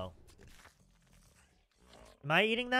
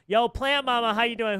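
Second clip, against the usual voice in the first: excited greeting; 9 semitones higher, 9 dB louder than usual. Real, not acted. Greets a viewer loudly.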